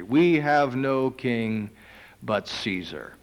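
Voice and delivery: slow, weighty echo of the line; slow solemn repeat. Acted. Preacher repeating the priests' words, slow and grave. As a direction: lay each word down gravely.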